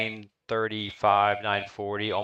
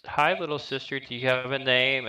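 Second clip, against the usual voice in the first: kind headmistress; 5 semitones higher than usual. Acted. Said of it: "she says".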